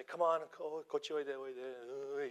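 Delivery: slow coaxing call to the student; beckoning teacher in Japanese. Retold or imitated. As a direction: coax him over gently, slowly. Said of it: "And I say".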